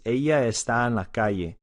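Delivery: Ella está en la calle with a y sound for ll; Latin American Spanish. Shown as a demonstration. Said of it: "this sentence is".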